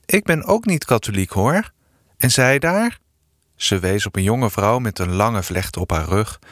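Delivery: put-on calm the girl's worries gently; soothing. A lady soothes the worried Eefje, gently reassuring. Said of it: "zei sussend".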